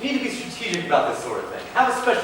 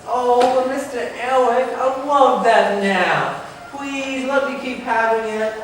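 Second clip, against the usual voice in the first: put-on whiny kid; 5 semitones higher, slower than usual. Kid begging to keep napping.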